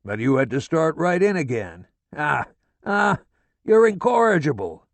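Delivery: father raging at his wife, all out; going all out. A narrator's reading. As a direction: give it everything, fully unhinged. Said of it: "He goes all out".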